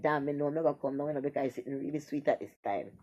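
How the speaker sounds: low, hushed imitation of mounting pleasure; mock pleasured murmur. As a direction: drop down soft and deep, as if savouring it. Voicing woman nearing climax.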